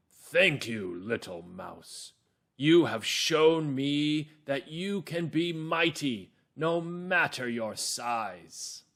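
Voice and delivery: a lightly voiced grateful lion, firm but gentle; strong lion voice. The lion thanks the mouse for saving him, strong but grateful. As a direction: let the lion sound strong yet thankful. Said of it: "the lion is going to have a strong voice".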